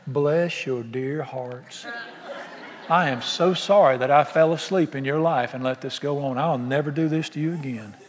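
low, slow mock-sweet apology with laughter; sarcastic tender apology; mock apology, chuckling. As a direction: tease them with a fake sorry, laughing. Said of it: "Jesus said to them".

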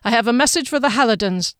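brisk, official delivery; announcing. A narrator's reading. Corporal delivers a message at the door, brisk announcement. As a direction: declare it formally and quickly. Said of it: "the corporal announced".

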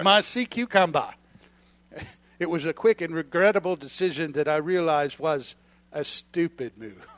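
hammed-up Australian storyteller; mock Australian accent, played for laughs; best Australian accent. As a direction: recount it as a proud Aussie fisherman. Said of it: "in my best Australian accent here".

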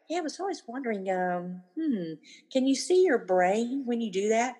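musing, curious question without sarcasm; innocent wondering. Shown as a demonstration. Parent to eye-rolling teen, innocently wondering. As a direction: wonder aloud, no meanness in it. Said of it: "just say it like I said it".

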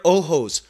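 ojos said the Spanish way, OH-hos; Spanish word. Shown as a demonstration. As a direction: drop in ojos as Spanish, with a bit of punch. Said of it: "for any, uh, Spanish-speaking listeners out there".

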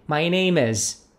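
slow "My name is." for the class; model for repeating. Shown as a demonstration. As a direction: spell out "My name is." slowly. ("My name is." lento para repetir)

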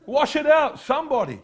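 high, loud laughing plea for help; mock desperate call. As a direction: call out for someone to wash it out, half laughing. Pleading for help with eye speck.

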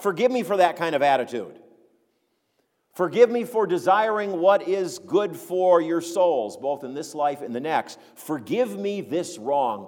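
mock contrition, slowing at the close; Paul's sarcastic apology. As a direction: beg pardon with measured, mild sarcasm.

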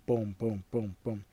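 low, evenly spaced booms; thudding steps going downstairs; imitated footsteps. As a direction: voice each footfall, fading slightly.

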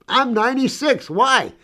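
tossing back her age, amused; lively old woman. Retold or imitated. Old woman's answer retold, high and lively.

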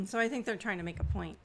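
clearing a tickly throat; throat clear before speaking; dry cough. Real, not acted. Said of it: "I have a tickle".

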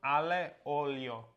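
"Ale olio" slowly, as AH-lay OH-lyo; careful Italian pronunciation. Shown as a demonstration. Co-host offering his version of the dish, "Ale olio" said slowly. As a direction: sound out "Ale olio" with clear Italian vowels.

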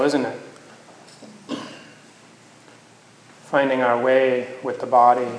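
unhurried meditation guidance with long pauses; guided meditation. Acted. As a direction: gently guide them into the body, leaving space between phrases.

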